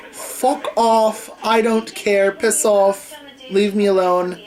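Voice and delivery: mildly acted teenage defiance; retold angry retort. Teen storming out past everyone, mildly angry.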